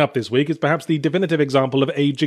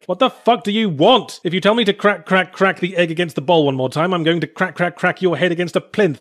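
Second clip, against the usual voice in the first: mock exasperation; 3 semitones higher than usual. Player snapping at the game's repeated egg-cracking orders, mock exasperation. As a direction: act out losing patience with a nagging instructor. Acted outburst at a nagging game.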